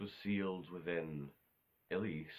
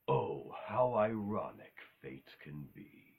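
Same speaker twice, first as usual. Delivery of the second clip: slow, drawn-out villain impression; Mephiles; slower than usual. Vlogger quoting the first thing you hear him say, amateur Mephiles impression. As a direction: draw it out like a badly imitated villain. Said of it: "That's probably shite Mephiles impression".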